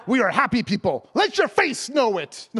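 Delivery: loud, slowing playful rebuke; mock exhortation. Preacher to miserable Christians, loud mock scolding. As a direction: belt it out, stretching the last words.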